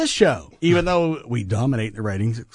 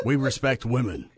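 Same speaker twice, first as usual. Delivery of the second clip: deadpan, without laughing; straight face. Shown as a demonstration. Co-host retries the claim on request, straight face. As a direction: say it earnestly, holding the laugh in. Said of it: "Say that one more time without laughing".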